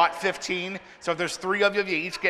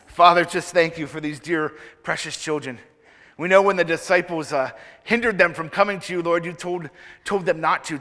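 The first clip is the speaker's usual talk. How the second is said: prayer. Acted. Leads children in prayer.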